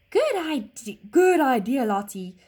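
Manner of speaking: warm horse voice, smiling. Acted. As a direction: say it with a smile. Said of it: "smiled Chester".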